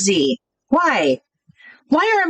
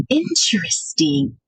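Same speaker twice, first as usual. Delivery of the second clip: usual speaking voice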